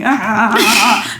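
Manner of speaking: string of loud mock-startled "ah"s; repeated flustered cries, played for the story; panicked yelps. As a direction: imitate yelping in a sudden downpour. Imitates reaction to sudden downpour.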